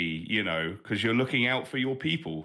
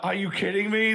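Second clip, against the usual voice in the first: exasperated robot; 11 semitones higher, 4 dB louder than usual. Retold or imitated. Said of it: "he's like".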